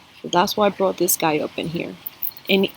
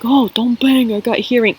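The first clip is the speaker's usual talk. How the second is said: mock complaint; 4 semitones higher, 5 dB louder than usual. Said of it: "a lot of people like".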